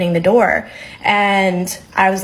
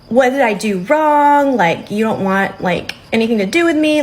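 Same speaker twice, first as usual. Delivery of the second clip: imitating a drunk date's whiny crying. To his date, a mock whiny tearful plea. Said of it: "just being super whiny and crying".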